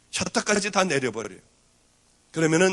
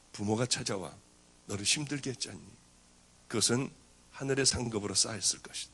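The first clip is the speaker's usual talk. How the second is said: 훨씬 낮고 조용하게 다독이는 하늘의 음성; soft, low, reassuring voice of the Spirit to His servant; 성령님의 음성; 7 semitones lower, 6 dB quieter than usual. Retold or imitated. Holy Spirit speaks to pastor. (낮고 부드럽게 위로하는 음성)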